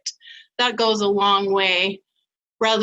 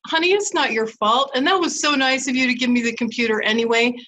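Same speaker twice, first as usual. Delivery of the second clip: reassuring husband; 2 semitones higher than usual. Retold or imitated. Wife reassures husband about the broken computer, kind and light. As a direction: lift him off the hook gently. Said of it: "So when I said to him".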